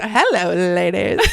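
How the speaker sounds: mildly showy replay of his greeting, breaking into laughter; imitated grand greeting. Repeating the man's entrance for her co-host, playful. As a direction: reprise his grand hello, amused. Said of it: "he goes".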